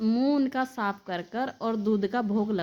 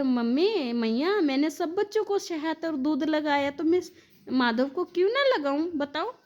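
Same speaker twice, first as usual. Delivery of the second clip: retold protest; 5 semitones higher than usual. Caretaker protests when scolded.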